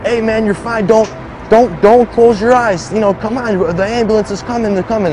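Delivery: high-pitched, urgent pleading; urgent reassurance. Retold or imitated. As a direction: plead with him to stay with you. Officer urging wounded speaker awake.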